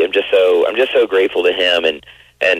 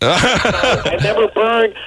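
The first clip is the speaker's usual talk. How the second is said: laughing; 12 semitones higher, much slower than usual. Real, not acted. Laughing while answering.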